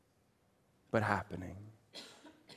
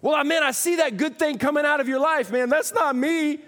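humble believer voice; 9 dB louder than usual. Acted.

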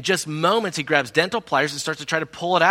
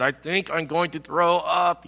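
slow, nauseated announcement; mock queasiness; 2 semitones higher, slower than usual. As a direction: drag it out as if about to retch. Retelling being about to vomit.

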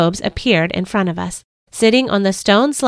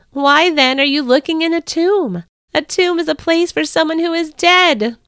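trumpet-like angel; 8 semitones higher, 3 dB louder than usual. A narrator's reading. Angel asking Mary why she cries, high and ringing. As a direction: sound out like a herald's trumpet. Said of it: "spoke in a voice that sounded like a trumpet".

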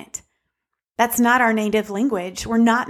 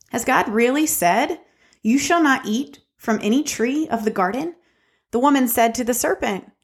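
scripture reading. Acted. Reads Genesis three aloud.

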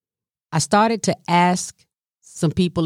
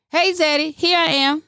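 higher, sing-song hello; cheerful greeting; 10 semitones higher than usual. Retold or imitated. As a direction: call out brightly on arrival. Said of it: "run up the steps".

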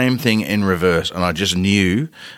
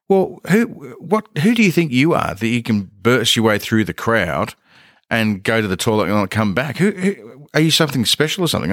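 mock telling-off; 2 semitones higher than usual. Retold mock telling-off in the crowd.

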